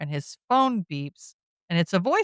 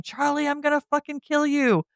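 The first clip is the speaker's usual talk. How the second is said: a hammed-up mild yell; mock yell; 9 semitones higher than usual. Josh storming downstairs threatening Charlie, mock yelling. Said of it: "storms down the steps yelling".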